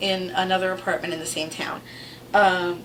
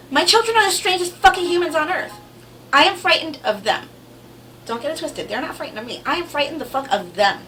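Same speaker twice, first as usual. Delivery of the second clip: laughing; 7 semitones higher, 5 dB louder than usual. Real, not acted. Still laughing after the story.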